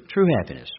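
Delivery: true leaned on, falling tune; stress on true. Shown as a demonstration. Preacher stressing true happiness to the congregation. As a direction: hit the word true hard. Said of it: "emphasize the word true".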